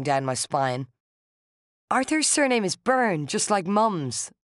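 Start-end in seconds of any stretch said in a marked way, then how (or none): 1.9-4.3 higher and shrill, slowing on the last words. A narrator's reading. Narrator confronting Rosaleen with the surname, shrill and high. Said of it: "I said in a shrill voice".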